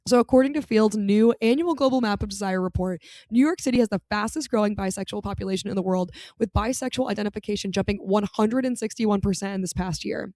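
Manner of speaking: normal talking voice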